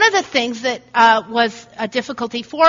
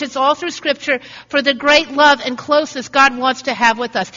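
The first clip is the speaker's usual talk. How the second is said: ordinary talk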